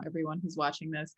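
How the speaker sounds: usual speaking voice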